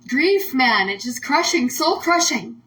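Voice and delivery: fighting back tears over grief; about to cry. Real, not acted. Host admits her grief and starts crying. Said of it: "I'm gonna cry".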